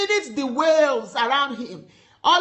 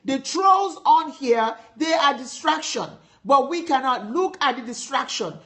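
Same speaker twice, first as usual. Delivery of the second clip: emphatic, driving sermon delivery; preaching. Real, not acted. Preacher urging listeners to keep their eyes on Jesus, preaching. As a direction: preach it with firm conviction.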